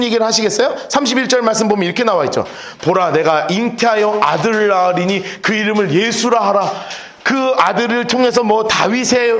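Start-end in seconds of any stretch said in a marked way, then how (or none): 2.8-6.7 solemn scripture reading. Acted. Reading angel's scripture words.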